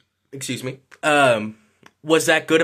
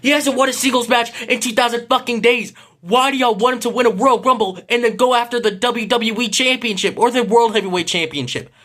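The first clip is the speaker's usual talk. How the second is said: loud, high, exasperated rant at the fans; heated rant; 9 semitones higher, 3 dB louder than usual. Real, not acted. Ranting to fans about Cena, loud and high. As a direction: vent it, voice pitched way up.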